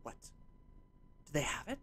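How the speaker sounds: hushed, secretive question; whispering back. Acted. Sculptor whispers back to her colleague, hushed. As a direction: ask it under your breath. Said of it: "she'll whisper back".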